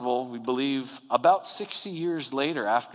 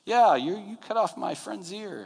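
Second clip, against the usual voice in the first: accuser; 9 semitones higher than usual. Retold or imitated. Acted accuser confronting Peter's denial.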